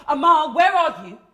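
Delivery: loud demand from an anxious mum; lightly voiced worried mother. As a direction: call out as a mother checking up.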